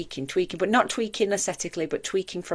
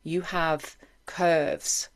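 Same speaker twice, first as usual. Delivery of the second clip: reassuring mother; slower than usual. Retold or imitated. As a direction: ease the words out gently, like reassuring a child. Mum reassuring her as a girl.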